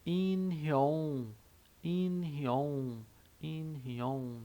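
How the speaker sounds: "inhyon" ending in an NG sound, falling; Korean word demo. Shown as a demonstration. Teacher repeating for learners, careful and clear. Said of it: "Então fica".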